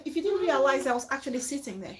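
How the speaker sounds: soft, quick, polite correction; kindly polite request. Shown as a demonstration. Host modelling how to ask a guest politely, gentle and quick. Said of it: "you kindly tell the person".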